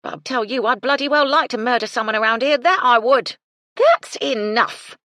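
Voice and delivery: loud, high commanding scold; shrill housekeeper. A narrator's reading. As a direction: cut through the racket with authority. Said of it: "Missus Chubb's shrill voice".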